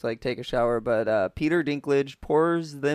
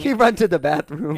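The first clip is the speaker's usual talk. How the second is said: louder mock French accent; 3 semitones higher, 6 dB louder than usual. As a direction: echo it in a put-on French accent. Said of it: "do a French accent now".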